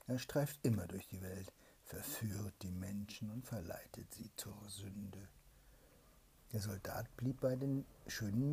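hushed whispered storytelling; bedtime whisper. A narrator's reading. Mother reads a bedtime tale to her child, whispering.

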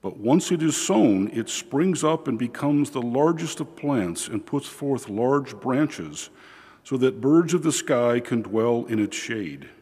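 solemn liturgical reading voice; gospel reading. Acted. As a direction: proclaim the gospel steadily from the ambo.

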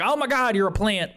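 high, amazed exclamation. Retold or imitated. Talking to a plant, a touch amazed. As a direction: gasp it out in wonder. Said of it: "I was like".

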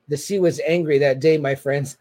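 lightly voiced George Costanza line; a hint of Costanza's dramatic delivery; quoting Costanza with mock gravity; Costanza impression.

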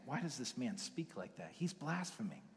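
lightly voiced outrage of offended scribes; outraged scribes. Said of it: "So they're outraged".

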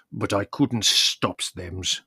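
slow, deep, wine-thickened voice; thick deep voice. A narrator's reading. Spiro admitting he couldn't stop them, slow and wine-thickened. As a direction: drag it out, thick with drink. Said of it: "his deep voice thickened with wine".

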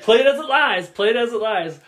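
mock taunt, lightly voiced; imitated sneering line. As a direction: taunt like a bully. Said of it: "He's like".

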